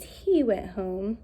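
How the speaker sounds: slow reading aloud. Shown as a demonstration. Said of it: "I used".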